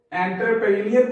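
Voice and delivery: एंटरप्रेन्योर said 'enter-pray-nee-ur'; mispronunciation demo. Shown as a demonstration. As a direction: open एंटरप्रेन्योर with a plain 'en', spelling-style. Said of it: "ये total गलत है". (एंटरप्रेन्योर का गलत उच्चारण, 'एंटर-प्रे-निअर')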